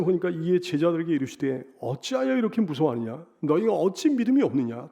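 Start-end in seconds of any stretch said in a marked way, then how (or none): 1.8-4.9 sighing lament. Retold or imitated. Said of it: "탄식을 하셨어요".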